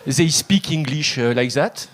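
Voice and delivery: lightly mocked French accent in English, slow; a Frenchman mangling English slowly, French accent; bad French accent. Comic mocking the French, halting French-accented English. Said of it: "comme des chèvres".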